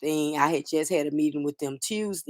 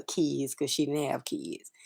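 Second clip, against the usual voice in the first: whispered through grief; barely voiced memory of the aunt; real whisper; 7 dB quieter than usual. Real, not acted. Grieving nephew whispers about his aunt to viewers.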